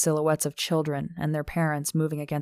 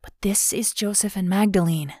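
higher-pitched imagined plea; pleading; 4 semitones higher than usual. Acted. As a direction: plead gently on behalf of friends. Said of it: "a pleading look that said".

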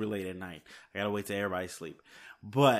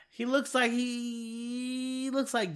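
excited squeal; 13 semitones higher, much slower than usual. Real, not acted. Fan gushing over actor's look.

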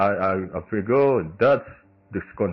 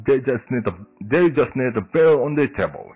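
Western cowboy accent; 2 semitones higher than usual. Shown as a demonstration. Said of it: "Yeah, like that".

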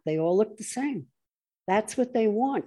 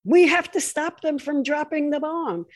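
higher, louder mock pleading; mock urgent plea; 7 semitones higher, 4 dB louder than usual. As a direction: beg urgently in a put-on voice. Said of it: "they go".

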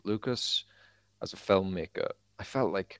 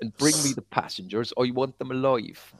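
Somerset Vader; 5 semitones higher than usual. Retold or imitated. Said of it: "Dave Prowse was from Somerset".

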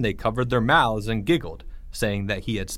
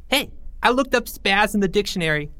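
much higher, gleeful squeal; a kid squealing a mean joke; 10 semitones higher than usual. Acted. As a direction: pipe up high across the room. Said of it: "squealed Porge".

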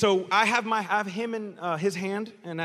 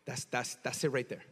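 ordinary talk

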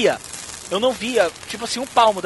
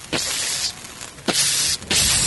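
imitated electric hiss; much slower than usual. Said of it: "começa a fazer assim".

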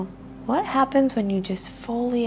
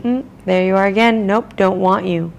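brisk, louder brush-off; dismissive; 4 dB louder than usual. Pretend. Speaker mimicking how we reject our own stress, quick dismissive brush-off. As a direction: shoo the feeling away impatiently. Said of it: "and we're saying".

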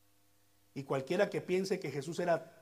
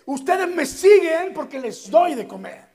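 laughing; 12 semitones higher, 16 dB louder than usual. Acted. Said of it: "prácticamente eso les dice".

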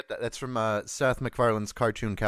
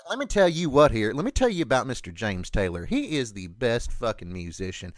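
put-on Boston accent. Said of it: "someone with that voice".

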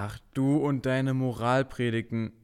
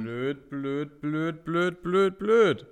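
building grumble; 4 semitones higher, much slower than usual. Acted. Toni fuming at himself over the forgotten phone, building. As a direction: work yourself up word by word.

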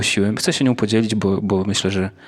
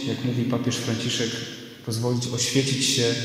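sermon recorded with church echo; preaching in a reverberant church; church reverb; 4 dB quieter than usual. Real, not acted. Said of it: "nagrał się też pogłos z kościoła". (pogłos kościelny)

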